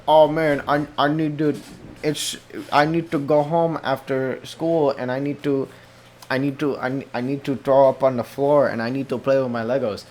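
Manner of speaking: lightly voiced whiny little kid; mock kid voice. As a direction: play a kid listing wants, a bit childish.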